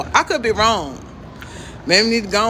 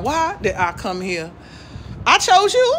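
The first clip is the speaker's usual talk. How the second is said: put-on baby's voice. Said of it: "that child is like".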